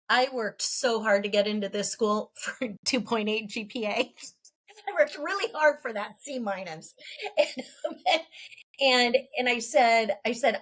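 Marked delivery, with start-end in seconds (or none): 0.1-7.4 laughing. Retold or imitated. Joking about poor grades to cousin.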